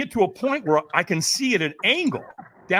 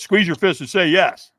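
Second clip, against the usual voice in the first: louder retold instruction; trainer's command; 3 semitones higher, 6 dB louder than usual. Trainer readies a firewalker, retold loud command. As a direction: coach giving a firm loud order. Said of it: "the trainer goes".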